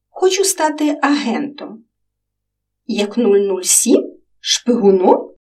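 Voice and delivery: lightly voiced children chatting; child voices in dialogue. A narrator's reading. Girl and boy chatting about dreams, lightly voiced children.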